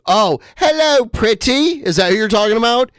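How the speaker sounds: high, flirty swinging-sixties spy voice; Austin Powers impression.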